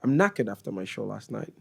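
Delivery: lightly put-on British accent; hint of typical British speech; British accent attempt. Shown as a demonstration. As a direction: have another careful try at British English. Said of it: "say them in your best British accent".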